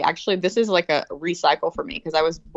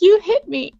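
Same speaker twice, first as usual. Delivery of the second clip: high, louder wounded cry of a hurt mother; hurt mom; 13 semitones higher, 7 dB louder, slower than usual. Retold or imitated. Mother to her daughter after being punched, high hurt voice. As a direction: say it like she's been wronged. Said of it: "she's like".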